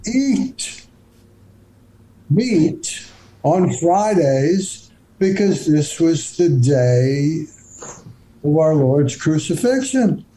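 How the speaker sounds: slow, solemn priest lecturing; a hint of a stern priest explaining the rule; lightly voiced priest, slow and grave. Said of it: "the priest says".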